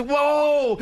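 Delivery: high mock child's whoop; imitated little daughter. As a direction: imitate a small girl thrilled on a swing. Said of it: "She goes".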